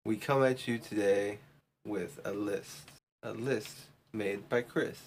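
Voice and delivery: a slow, lightly put-on Russell Brand accent; drawn-out mock Russell Brand delivery.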